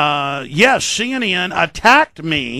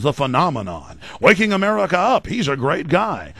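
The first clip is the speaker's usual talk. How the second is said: mock promotional praise. Parodies praise he would get.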